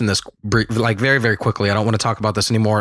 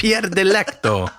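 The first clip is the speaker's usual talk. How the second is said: slow, higher Italian-style name; Italian accent; 7 semitones higher, slower than usual. Shown as a demonstration. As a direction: savor each syllable like an Italian. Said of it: "Say it again, please".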